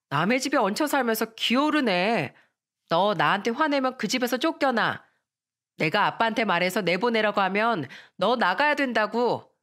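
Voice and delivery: put-on taunting rich girl.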